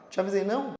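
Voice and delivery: a light told-you-so quip, rising on não; mild gloating at someone who was warned; smug told-you-so. Acted. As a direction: tease the other person lightly with te avisei. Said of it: "Então você vira e fala".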